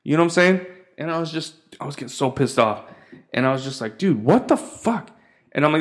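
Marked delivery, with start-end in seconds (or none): 4.0-5.1 slow, higher, incredulous mock protest; retold exasperation. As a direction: drag out the disbelief, pitched up. Retells his pissed-off reaction.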